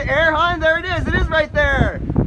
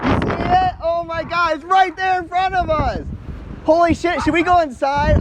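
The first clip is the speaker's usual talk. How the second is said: excited; 5 semitones higher than usual. Real, not acted. Tornado close in front.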